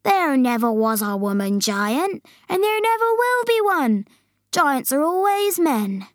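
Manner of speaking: indignant giant, climbing high; BFG insisting. Acted. Giant setting Sophie straight about women giants, indignant.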